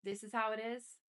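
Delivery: creeping anger. A narrator's reading. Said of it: "Sean's anger was creeping in".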